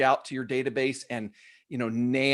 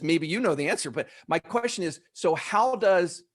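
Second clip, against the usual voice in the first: usual speaking voice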